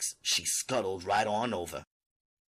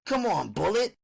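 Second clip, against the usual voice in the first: high pleading mother; 10 semitones higher, 3 dB louder than usual. Acted.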